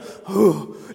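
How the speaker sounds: breathy imitated caveman grunt; mock primitive "hoo"; caveman huff.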